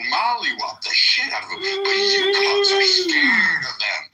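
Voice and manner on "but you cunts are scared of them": furious yell. Real, not acted. Ranting insults at online opponent.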